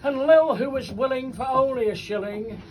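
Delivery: bouncing rhymed verse, line by line; comic poem recitation. Acted. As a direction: recite it to a live crowd.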